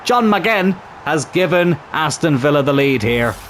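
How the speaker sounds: put-on commentary line in a light Scottish accent; playful Scottish commentator. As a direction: slip into a touch of Scottish. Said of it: "doing it in a Scottish accent".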